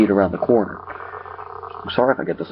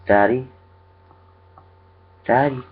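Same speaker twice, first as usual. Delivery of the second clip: eerie mimicry of a child, pitched up; Daniel's voice; 5 semitones higher, much slower than usual. A narrator's reading. Creature calls to James as his son, eerie child mimicry. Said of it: "it talked in Daniel's voice".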